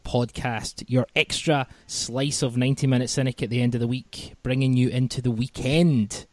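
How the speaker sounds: polished radio presenter intro; smooth professional broadcaster welcome; radio host voice. Acted. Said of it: "I sounded like an actual radio sort of host there".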